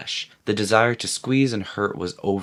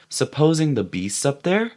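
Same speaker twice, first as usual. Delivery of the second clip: hesitating; 6 semitones higher than usual. A narrator's reading.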